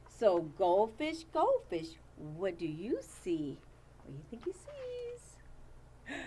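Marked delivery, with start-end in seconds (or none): 4.0-6.2 teasing. Acted. Teasing question to class.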